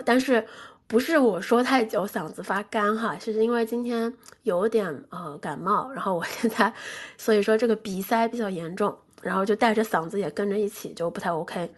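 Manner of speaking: stuffy nose from a cold; hoarse and congested from a cold; blocked nose. Real, not acted.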